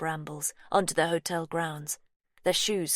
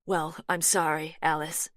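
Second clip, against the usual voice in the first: firm American twang. Acted. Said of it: "firmness in Laurie's softly spoken American twang".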